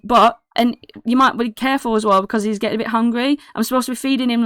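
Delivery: lightly voiced chatty boy; excitable kid. Kid warns Holland about feeding Oogly, lightly voiced excitable chatter. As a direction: ramble on eagerly, a little high.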